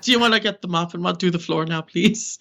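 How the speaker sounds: light mocking Irish lilt, teasing a show-off; a hint of an Irish relative cutting her down; Irish accent. Relative telling her to get the mop, light teasing Irish accent. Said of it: "I like to put an Irish accent on the story".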